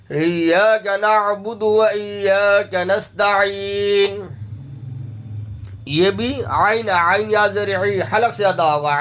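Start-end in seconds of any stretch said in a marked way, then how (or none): 0.1-4.2 slow, sustained tajweed recitation; Quran recitation. Shown as a demonstration. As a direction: recite slowly, holding the final long vowel. Recites the verse slowly. (ٹھہر ٹھہر کر تجوید سے تلاوت)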